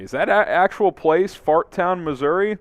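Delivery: real surprise, voice lifted; incredulous question. Real, not acted. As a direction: question it as if you can't believe it's real. Doubts an odd town name is real.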